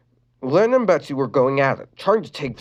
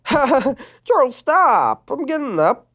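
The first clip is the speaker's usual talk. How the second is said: laughing; 12 semitones higher, 4 dB louder, much slower than usual. A narrator's reading. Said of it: "Lincoln laughed".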